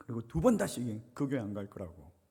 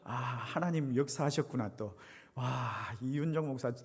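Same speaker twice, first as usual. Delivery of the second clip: 1 delighted realization. Retold or imitated. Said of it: "이런 생각이 딱 드는 거예요".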